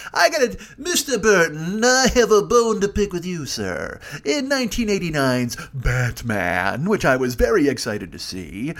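lightly put-on, slow and prim grievance voice; a fan pompously scolding the director; mock formal complaint. Fan confronting Tim Burton, mock-formal prim voice. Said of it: "What if I dropped that on him?".

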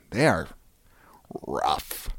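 whispered under the breath; hushed whisper on the last word. Acted. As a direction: drop to a grim whisper. Trailing mock-grim remark.

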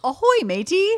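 pirate voice. Pretend. Pirate greeting after ad.

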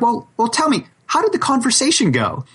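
high, tense asking voice; anxious asking. Retold or imitated. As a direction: press him gently, voice up high. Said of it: "I'm like".

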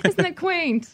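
very high, slow, drawn-out mock English accent; mock English tourist. Joining the joke about London visitors, high slow mock English accent.

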